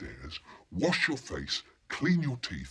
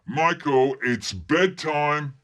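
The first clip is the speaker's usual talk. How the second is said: louder, higher mum's call, "bedtime" drawn out; 6 semitones higher, 7 dB louder, much slower than usual. Acted. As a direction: call your child insistently to bed. Mum calls again, louder.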